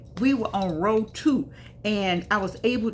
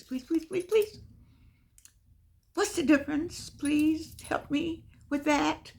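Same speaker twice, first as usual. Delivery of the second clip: higher, drawn-out pleading please; mock begging; 7 semitones higher, 4 dB quieter, slower than usual. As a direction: beg her listeners, hammed up and slow. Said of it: "I'm just begging you".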